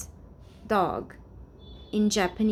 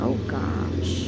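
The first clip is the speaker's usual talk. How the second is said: breathy whispered oh gosh at her own slip; embarrassed whisper; 7 semitones lower than usual. Real, not acted. Vlogger catches her own word slip, whispering in embarrassment. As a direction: whisper it, caught out by a mistake.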